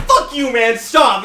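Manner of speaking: loud, high angry yell from the crowd; angry crowd shout. Acted. Tavern patrons yelling at the cup-smasher, angry shout. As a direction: shout them down, fed up. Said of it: "people are like".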